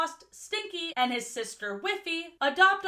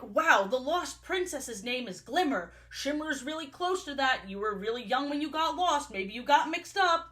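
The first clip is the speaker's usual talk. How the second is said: hyping her up. Retold or imitated. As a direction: imitate excited parents piling up coincidences. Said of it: "they are hyping her up".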